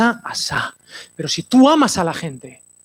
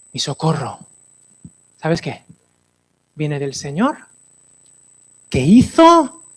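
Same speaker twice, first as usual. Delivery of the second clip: dramatic psalm reading; 3 semitones lower, slower than usual. Acted. Recita el salmo 121 dramatizado.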